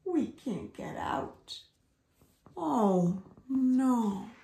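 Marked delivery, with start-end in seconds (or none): 0.0-1.6 grumbling. Acted. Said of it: "grumbled Sun Bear".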